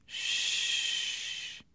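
soft, voiceless hushing; soothing hush. A narrator's reading. Husband comforting his sobbing wife, soothingly. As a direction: hush the crying gently.

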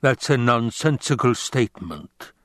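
lightly rumbled rebuke; a hint of a basso villain's disapproval; understated rumbling put-down; Baron Vladimir Harkonnen. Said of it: "the Baron rumbled".

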